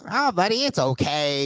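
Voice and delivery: very high put-on buddy voice; Clint Howard. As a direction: imitate an odd man's high-pitched croon. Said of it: "he talks like that".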